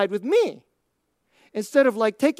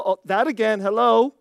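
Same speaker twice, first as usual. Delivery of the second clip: gentle teasing friend; 5 semitones lower, 3 dB quieter than usual. Retold or imitated. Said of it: "like, gently say".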